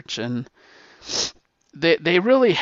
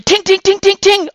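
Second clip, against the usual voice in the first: ricochet sounds; 12 dB louder than usual. Retold or imitated. Bullets ricocheting off the tank.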